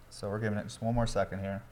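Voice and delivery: talking between slurps of a drink; slurping drink. Real, not acted. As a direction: speak while sipping and slurping. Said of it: "Sorry, I'm slurping in the mic".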